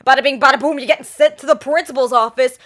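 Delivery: loud, punchy mock quote; mock announcement. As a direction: belt it out like a wisecrack. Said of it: "they might be like".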